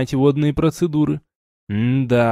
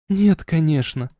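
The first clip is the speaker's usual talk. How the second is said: plain reading voice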